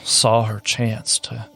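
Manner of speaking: halting, apologetic, with long pauses; lightly played groggy captain gathering his words; lightly voiced dazed captain. Hurt captain apologizes to crew, mildly dazed and faltering.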